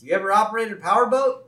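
high, loud cheery neighbor voice; Ned. Retold or imitated. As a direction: chirp it out with hammed-up friendliness. Ned questions Abe in retold scene.

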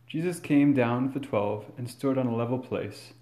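measured, solemn proclamation; formal gospel reading. Acted. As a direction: read it like scripture at Mass.

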